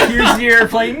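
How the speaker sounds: put-on high, loud baby-feeding singsong; airplane game voice. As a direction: coax like feeding a toddler. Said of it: "doing the".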